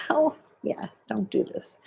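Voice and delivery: high yelp of pain, then soft warning. Real, not acted. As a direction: yelp at the sting. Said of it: "'cause it hurts".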